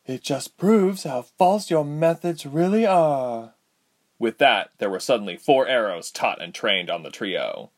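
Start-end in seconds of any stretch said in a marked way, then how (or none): 0.1-3.5 higher, scornful retort; scornful woman. A narrator's reading. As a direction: sneer it down at him. Ladala voiced.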